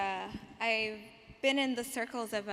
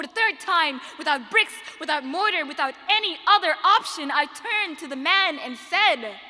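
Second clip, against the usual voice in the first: impassioned slam poetry, building louder to a peak; spoken word poem; 5 semitones higher, 7 dB louder than usual. Acted. Poet answers a man about her homeland, forceful spoken word.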